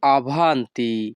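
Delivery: slow, careful teacher pronunciation; very slow, deliberate Italian; slow Italian model phrase. Shown as a demonstration. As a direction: lay out each syllable slowly for the learner. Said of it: "তখন আমাদেরকে বলতে হবে".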